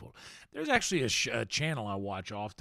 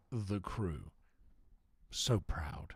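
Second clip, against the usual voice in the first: whisper; 4 semitones lower, 4 dB quieter than usual. Pretend.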